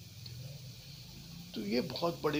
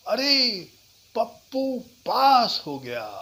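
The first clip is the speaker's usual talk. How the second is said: loud, higher happy news; excited; 7 semitones higher, 10 dB louder, slower than usual. Shown as a demonstration. Teacher demoing excited good news. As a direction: burst out with joy. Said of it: "excitement से बोल सकते हैं".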